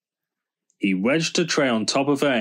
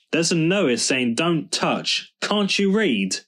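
high-pitched indignant scolding; very cross; 7 semitones higher than usual. A narrator's reading. George to Snoop about the notice, very cross. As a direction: tell him off, pitch climbing on the question. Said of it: "He was very cross".

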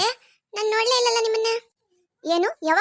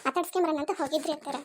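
put-on young daughter-in-law. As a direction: coax the mother-in-law politely. Skit, daughter-in-law to mother-in-law.

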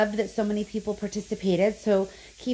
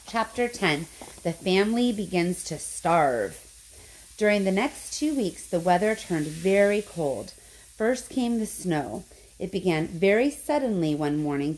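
expressive, animated read-aloud with wide pitch swings; children's story narration. A narrator's reading. Teacher reading Charlie and the Chocolate Factory to pupils, animated storytelling. Reads next chapter aloud.

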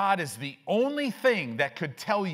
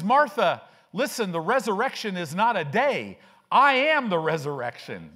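loud, emphatic preacher voicing Jesus; forceful rebuke; 4 semitones higher, 6 dB louder than usual. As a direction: drive the point home to Martha at full voice. Voices Jesus correcting Martha.

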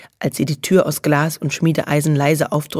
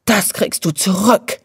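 lightly voiced crowing threat, slower; 4 semitones higher, slower than usual. A narrator's reading. Lotte, woken rudely, crowing a threat at Nelly. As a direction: crow the threat like a sulky little one. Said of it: "krähte Lotte".

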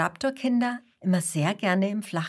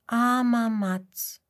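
plain reading voice

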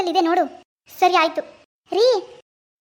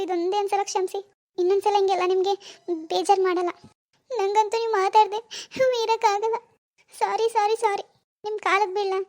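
tearful pleading; 2 semitones higher than usual. Acted. Wife begs her husband not to stop talking to her, in tears. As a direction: plead through tears, voice raised and small. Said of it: "ಇಷ್ಟೊಂದ್ ಕಣ್ಣೀರ್ ಯಾಕ್ ಹಾಕ್ತಿದ್ಯಾ".

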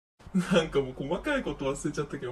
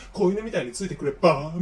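Disney villain; 4 dB louder than usual. Retold or imitated. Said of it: "クルエラデビルとかディズニーの悪役キャラみたいな顔して".

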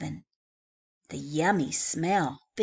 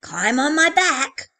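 shaggy dog voice; 7 semitones higher, 11 dB louder than usual. Acted.

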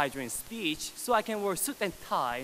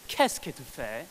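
French phrase; 4 semitones lower than usual. Shown as a demonstration. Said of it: "can speak a little bit of French".

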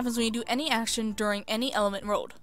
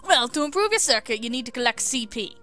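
put-on Australian accent; 2 semitones higher, 5 dB louder than usual. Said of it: "I don't know how to do accents".

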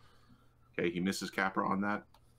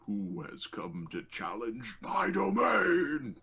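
booming, theatrical challenge rising to a shout; challenging domain lord; 3 semitones higher than usual. Acted. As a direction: roar it like a villain defending their lands. Game master voices domain's angry lord.

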